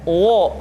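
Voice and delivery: "wo" with wrongly pursed lips; lèvres arrondies. Shown as a demonstration. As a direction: show the mistake, rounding "wo" into an o. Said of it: "tidak dimonyongkan".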